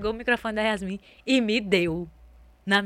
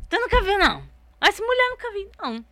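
astonished; 13 semitones higher, 7 dB louder than usual. Retold or imitated. Retells friend's astonished reply.

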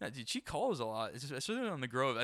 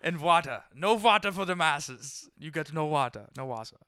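mock villain; 5 dB louder than usual.

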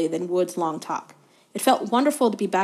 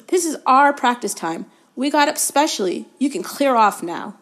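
loud, high angry demand; angry shout; 5 semitones higher, 5 dB louder than usual. A narrator's reading. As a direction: shout them off the pitch.

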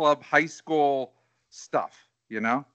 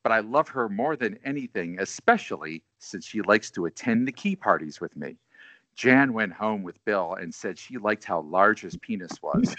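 sultry voice; 8 semitones lower, 4 dB quieter than usual. Pretend. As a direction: read it like a smooth Quiet Storm host. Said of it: "I could be like Quiet Storm here".

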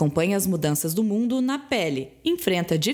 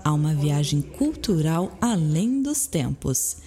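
airport announcement; 4 semitones lower than usual. Acted. Mock airport boarding call.

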